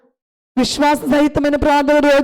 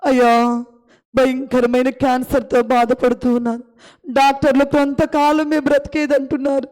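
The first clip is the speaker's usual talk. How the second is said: fervent prayer. Acted. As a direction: pour out the need before God. Long prayer voiced for childless mother. (వేడుకునే ప్రార్థన స్వరం)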